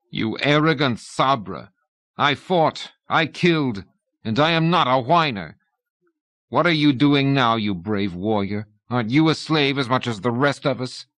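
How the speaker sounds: a wounded man snapping at a bully; indignant retort. Acted. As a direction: fling the insult back at him. Ruach retorts to Targov's insult.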